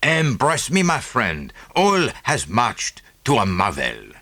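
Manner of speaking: put-on lightly French-accented little detective; a touch of French accent, beaming; Poirot. Poirot voiced in reading.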